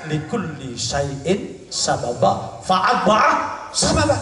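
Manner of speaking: slow chanted Arabic verse; Quran recitation. Acted. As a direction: recite it slowly like scripture.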